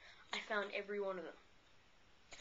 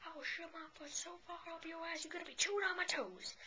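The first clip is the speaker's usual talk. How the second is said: mock hick threat pitched much higher, ending in a whisper; hick snapping; 8 semitones higher than usual. Gas-station hick threatens the narrator over returning fuel, high mock snap. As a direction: snap at him like an outraged country hick, high and strained. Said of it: "finally he snaps".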